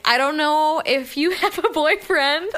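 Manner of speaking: half-hearted nerdy guy voice. Retold or imitated. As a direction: imitate his nerdy come-on, giggling. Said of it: "he says this so much better than I do".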